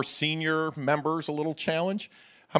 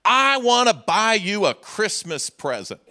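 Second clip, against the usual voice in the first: put-on high, loud, slow sweet child's plea; little girl voice; 10 semitones higher, 6 dB louder, slower than usual. Preacher imitating his little daughter Danielle, high sweet child voice. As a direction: play his small daughter asking sweetly, pitched way up. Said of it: "she'd be like".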